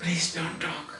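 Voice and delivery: hushed, very low, soft half-whisper, barely audible. Explaining the word to a class, demonstrating it: half-whisper. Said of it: "this way of talking is whispering".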